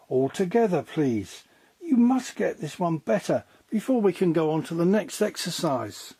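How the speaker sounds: a teacher rallying the class to go again; brisk ballet teacher. A narrator's reading.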